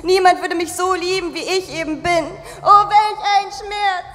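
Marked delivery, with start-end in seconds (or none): 2.6-4.1 slow, hammed-up heartbreak sigh; mock lament. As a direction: overact the pain. (theatralisch gespielter Schmerz)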